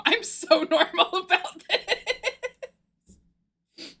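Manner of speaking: slow, giggly mock calm; laughing joke. Real, not acted. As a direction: laugh while claiming to be calm. Joking she's calm, laughing.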